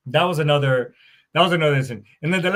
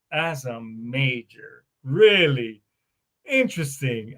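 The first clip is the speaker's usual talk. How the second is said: skeptical; 3 semitones lower, slower than usual. Retold or imitated. Doubting a fake major's claim.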